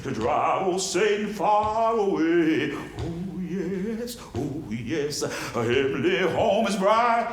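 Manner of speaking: two different voices. Shown as a demonstration. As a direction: switch voices between caller and responder. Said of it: "Two different voices".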